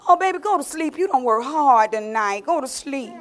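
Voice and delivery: soothing lull. Acted. Delilah lulling Samson.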